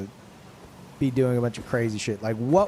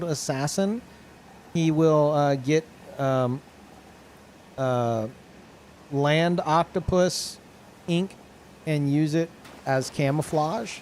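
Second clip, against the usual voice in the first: nerd voice; 2 semitones higher than usual. Pretend. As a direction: talk like an eager nerd. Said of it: "I'm gonna use my nerd voice".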